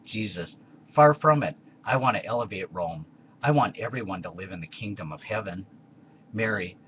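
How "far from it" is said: emphatic protest. Acted. Jesus protests to Tiberius.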